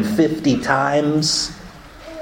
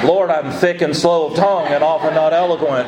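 laughing mock prayer; 3 semitones higher than usual. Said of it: "So I went".

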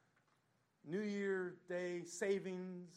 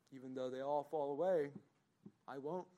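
boastful Peter. Acted. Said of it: "And what does Peter say?".

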